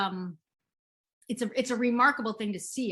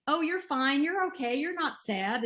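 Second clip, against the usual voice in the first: high, breezy brush-off; mock dismissive parent; 6 semitones higher than usual. Parent dismissing a sad child, high mock brush-off. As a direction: wave away a child's sadness in a bright high voice. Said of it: "we all shut it off so early".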